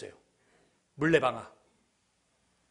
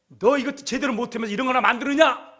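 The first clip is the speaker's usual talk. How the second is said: acted schoolyard jeer, pitched up; mocking; 4 semitones higher, 4 dB louder than usual. Big schoolboy putting down young Newton, mocking. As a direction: belittle him with a raised, challenging voice. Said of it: "그래서 막 조롱하는 거예요".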